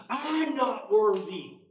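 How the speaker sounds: slow, ringing cry of humility; exclaimed in awe. Real, not acted. Preacher relives his awe at the falls, crying out. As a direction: call it out, overwhelmed. Repeated, louder.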